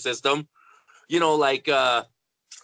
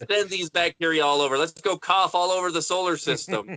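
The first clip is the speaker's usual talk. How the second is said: raised, eager mock chant; gung-ho rally cry; 4 semitones higher than usual. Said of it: "I'm kind of of the opinion".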